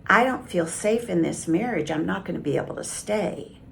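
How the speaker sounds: steady, even and unhurried, no heat at all; calm. Shown as a demonstration. Wife calmly telling husband she cannot stay. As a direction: state it calmly, like a settled fact.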